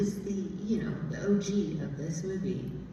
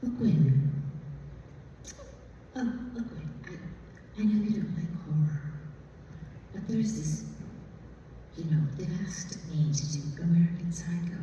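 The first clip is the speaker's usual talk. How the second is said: Mary Herron impression. Director coaxing Gwyn to read American Psycho, mild Oxford-tinged accent. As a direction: gently coax her in a half-British Oxford accent. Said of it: "so this is how she talks".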